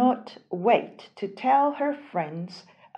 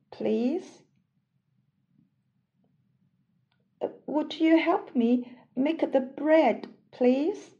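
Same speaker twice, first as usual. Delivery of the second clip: high, pleading hen; 5 semitones higher than usual. Acted. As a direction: hen asking politely. Hen asks again.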